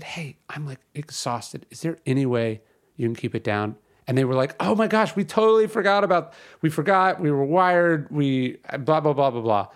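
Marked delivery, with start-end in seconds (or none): 0.0-3.8 soft, polite plea to the noisy neighbours; polite request. Retold or imitated. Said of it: "I said it politely". 4.6-9.7 flustered apology. Retold or imitated. Seatmates apologize, voiced by him.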